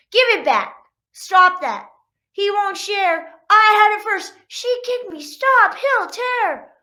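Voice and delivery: high, loud bickering dog siblings; squabbling kids. Acted. Dog siblings fighting over toys, shrill shouting. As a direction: yell like siblings in a toy fight.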